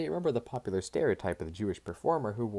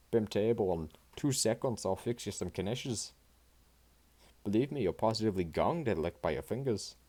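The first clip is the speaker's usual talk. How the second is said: put-on Jewish accent; 3 semitones higher than usual. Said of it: "Katie spoke in a Jewish accent".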